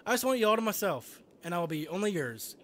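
a hint of an obsessed girl; lightly voiced obsessive Yuri. Reads Yuri's confession.

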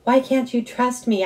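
high, loud hurt yell. A narrator's reading. Son yelling at his mom for not trusting him, high and loud. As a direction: shout it, wounded. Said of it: "I was yelling now".

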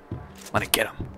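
soft sinister whisper; unvoiced menacing whisper. Real, not acted. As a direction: breathe it like a secret plan. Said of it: "I'm gonna get 'em".

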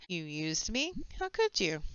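hammed-up heartbreak; mock hurt betrayal. Player voicing a betrayed character, hammed-up hurt.

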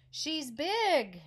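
high, loud little monkey; excited little monkey answering the butterfly; monkey calling out. Acted. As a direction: blurt it out like an eager small monkey.

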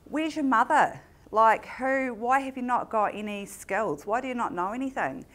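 loud, high, disbelieving tirade; angry outburst. Retold or imitated. To the young mum who can't cook, angry outburst. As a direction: pour out the frustration in a rising rant.

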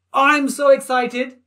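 slow, high, loud excitement; excited. Real, not acted. Teacher answers his own question with slow, loud excitement. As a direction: stretch it out with glee. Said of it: "Who's excited?".

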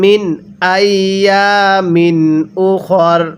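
slow tajweed chant of মিন আইয়ামিন উখর; Quran recitation. Shown as a demonstration. Teacher models the correct reading for students, slow chant. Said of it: "তাহলে কিভাবে পড়ব?".

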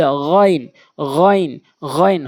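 গইন with a voiced rasped gh from the throat, like খ; Arabic ghayn opening গইন; throaty ghayn. Shown as a demonstration. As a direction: make গইন at the end of the throat. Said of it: "হলকের শেষ থেকে খর মতো".

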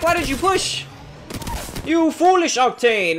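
high, puzzled exclamation; baffled. Real, not acted. Streamer reacting to the enemy Octane's reckless push, baffled. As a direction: ask it as if you can't believe it.

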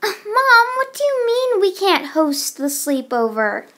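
high, loud start that slides down; indignant protest. Acted. Child objecting to Mom about the sleepover, indignant. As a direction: complain to Mom in disbelief.

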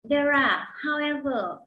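slow, careful English reading; textbook read-aloud. Acted. Teacher reads the lesson passage aloud for students. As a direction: read it clearly for learners to follow.

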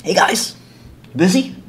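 high, timid little greeting; sheepish interrupter. Acted. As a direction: pop in brightly and politely. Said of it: "I'd duck in my head like this".

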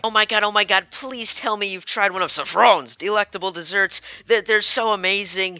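over-excited gushing with stretched words; gushing dessert fan. Acted. Fan raving to a stranger about desserts, hammed-up gushing. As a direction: rave about it, leaning hard on "so".

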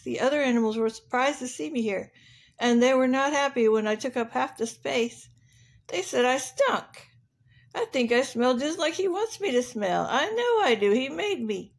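lightly voiced rhino, proudly defending himself; a touch of hurt rhino dignity; aggrieved rhinoceros. Rhino insisting he smells as he was made, defensive. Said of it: "The rhinoceros said".

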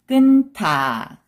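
끊다 joined as 끈타, aspirated t; read together. Shown as a demonstration. Teacher showing the linked sound to learners, read together. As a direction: run 끊다 together with an airy 타. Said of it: "also 느 sound".

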